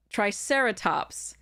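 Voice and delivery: Triceratops slowly, stressed on SER; example of syllable emphasis. Shown as a demonstration. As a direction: say try-SER-uh-tops for Triceratops, drawn out. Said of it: "have the emphasis placed on that syllable".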